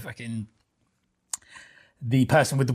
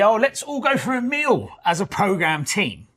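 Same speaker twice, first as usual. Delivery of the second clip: mock chirpy invite; 9 semitones higher than usual. Mock quote of consultancy.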